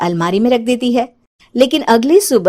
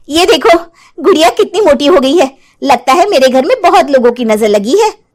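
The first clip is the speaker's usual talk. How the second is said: mocking Ranjana; 4 semitones higher, 3 dB louder than usual. Ranjana confronts witch.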